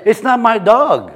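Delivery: slow mock French accent; Clouseau's reply in a light put-on French accent; Clouseau impression. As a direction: deliver the punchline as a bumbling French inspector. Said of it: "He says".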